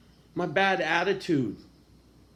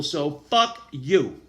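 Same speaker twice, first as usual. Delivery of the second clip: slow, loud, deliberate fuck you; defiant; 6 dB louder, much slower than usual. Real, not acted. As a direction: spit each word out slowly. Defiant retort to haters.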